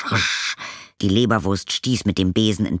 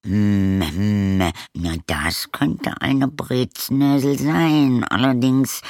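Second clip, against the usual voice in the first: slow, higher voiced postman thinking aloud; musing postman; 5 semitones higher, 3 dB louder, much slower than usual. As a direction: hum and ponder the word Breznäsel.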